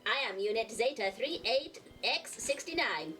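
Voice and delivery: lightly done robot host voice. Acted. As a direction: announce it like a mild robot. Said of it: "I am your robotic host".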